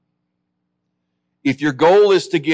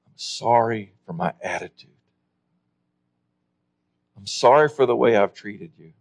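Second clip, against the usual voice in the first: mild apology; 3 semitones lower than usual. Retold or imitated. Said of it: "apologize to".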